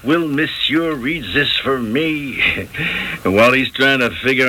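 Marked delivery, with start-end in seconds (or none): 0.0-2.7 slow, teasing imitation of a French coquette; hammed-up French-accented plea; mock French accent.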